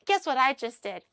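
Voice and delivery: imitated proud outburst, high and loud at first; proud excitement. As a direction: gush like someone showing off their feat. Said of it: "he was really proud of himself".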